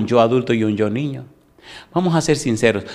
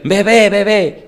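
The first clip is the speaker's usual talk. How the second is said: put-on high, loud calling out to the baby; be the hormone knocking on baby's door; 10 semitones higher, 7 dB louder, slower than usual. Hormone rushing to tell the baby mother is upset, high loud call.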